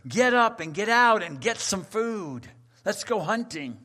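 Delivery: loud, fast hunter's rallying cry; rally the hunting party, loud and quick; eager hunter. Pretend. Preacher mimics a hunter calling friends out, loud and eager. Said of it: "the words of every hunter".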